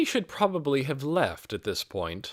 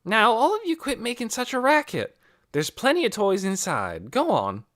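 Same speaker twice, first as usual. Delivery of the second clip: higher, louder bossy big brother voice; big brother scolding; 11 semitones higher, 4 dB louder than usual. A narrator's reading. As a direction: send the kids inside, firm and loud. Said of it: "Then he said".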